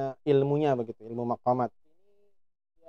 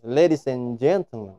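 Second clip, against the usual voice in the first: English accent; slower than usual. Shown as a demonstration. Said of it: "paling pas ya dengan dialek orang Inggris".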